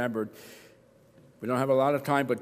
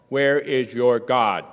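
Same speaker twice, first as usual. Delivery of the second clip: drawn-out, louder mocking taunt; slow mocking taunt; 7 dB louder, much slower than usual. Persecutors jeering at the exiled psalmist, slow loud mockery. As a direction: sneer it slowly, pressing each word. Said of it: "persecuted and taunted continually".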